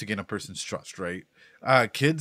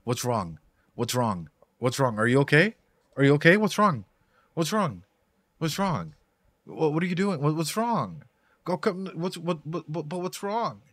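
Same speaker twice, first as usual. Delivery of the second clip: nagging, rising, repeated what's wrong; mock a pushy, worried friend who won't let up; pestering voice; 4 semitones higher than usual. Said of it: "someone keeps trying to push in and be like".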